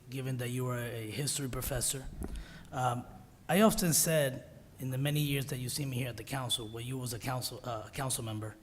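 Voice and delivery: hoarse, sick voice; strained voice from a cold; raspy whisper. Real, not acted. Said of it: "excuse my voice, I'm a little under the weather".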